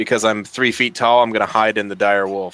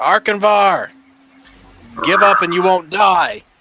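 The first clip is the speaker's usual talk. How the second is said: very high-pitched, drawn-out shout; 9 semitones higher, 5 dB louder than usual. Playing a character who yells across at an enemy: yelling out at an enemy. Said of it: "I'm gonna yell out at the Arkinvar".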